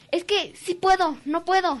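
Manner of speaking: put-on high, slow, eerie child's plea; boy in class, slow and high; creepy kid voice. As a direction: drag it out like an odd child. Strange boy voiced in story.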